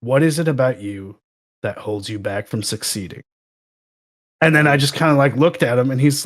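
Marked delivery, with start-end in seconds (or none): 0.0-3.2 a hint of a sad, stern dad; lightly voiced disappointed dad talking to a young coworker. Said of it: "I did the disappointed dad".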